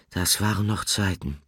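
understated sighing. Acted. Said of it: "seufzte Nickel".

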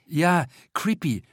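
slow mumble, acting cool; mumbled trying to sound cool. A narrator's reading. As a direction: mumble it, feigning coolness. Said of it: "nuschelt Tatje, um Coolness bemüht".

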